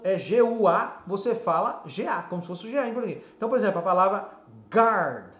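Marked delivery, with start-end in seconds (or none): 4.7-5.3 guard said with a hard G and no U sound, like "gard"; English guard. Shown as a demonstration. Teacher models guard for Brazilian students, no "gw" sound. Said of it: "a pronúncia escrita aqui".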